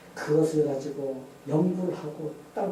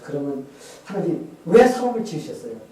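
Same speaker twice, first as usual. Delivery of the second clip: questioning God; 2 semitones higher, 12 dB louder than usual. Retold or imitated. Retelling the scientist asking God about mankind, questioning appeal. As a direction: appeal swelling to a loud question. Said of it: "이렇게 딱 질문을 했어요".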